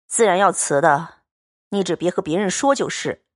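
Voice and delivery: steady, cool young swordsman, lightly voiced; calm and blunt, a man of few words; Liu Xianglian's voice. Xianglian calmly tells Baoyu the money is set aside, steady and cool.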